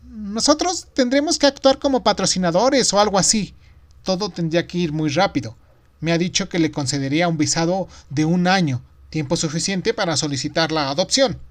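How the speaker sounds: woman bursting with news; excited wife. A narrator's reading. Esposa explica la noticia. (esposa emocionada, voz aguda)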